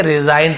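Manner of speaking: "रिजाइन" with long i sound, g unsounded; model pronunciation. Shown as a demonstration. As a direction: say "रिजाइन" clearly, ending in -ain. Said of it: "इसे क्या पढ़ेंगे". ("रिजाइन" का साफ़ उच्चारण)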